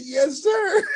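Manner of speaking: high, loud laughing yes; excited. Retold or imitated. Admitting to Robert Schuller he is excited, laughing loudly. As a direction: shout it through laughter. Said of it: "You're really excited".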